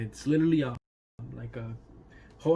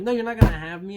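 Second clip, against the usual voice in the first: firm refusal; 8 semitones higher, 8 dB louder than usual. Retold or imitated. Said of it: "I'm like".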